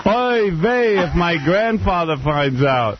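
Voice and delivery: high hammed-up fretting voice; mock Jewish worrier. Friend playing a Jew afraid of his grandfather, high mock fretting. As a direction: fret like a comic caricature.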